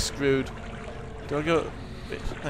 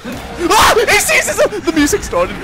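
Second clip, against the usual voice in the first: shrill, loud scream with a nervous laugh; panicked scream; 9 dB louder than usual. Real, not acted. Player spotted by Chris, screams half laughing. Chased by the monster.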